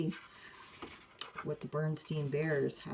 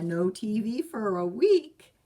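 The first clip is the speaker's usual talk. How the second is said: stern mother; 4 semitones higher, 7 dB louder than usual. Acted. Mother insists.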